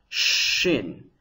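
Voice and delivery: "Shin" with a long, dark sh; darker sibilant. Shown as a demonstration. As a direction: draw out the hushing start of "Shin". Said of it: "It's got a darker sound".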